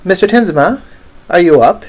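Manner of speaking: calling up. Acted. Odette at the door to Mister Tinsma, calling up. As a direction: call up with a rising, inquiring lilt. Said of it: "knocks on the door and calls up".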